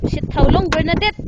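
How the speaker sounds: loud complaint. Real, not acted. Asking in freezing cold.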